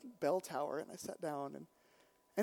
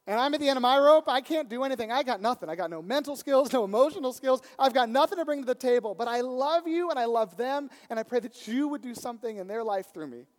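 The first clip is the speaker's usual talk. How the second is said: humble surrender prayer; 6 semitones higher, 10 dB louder than usual. Pretend. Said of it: "come to him like a little kid and say".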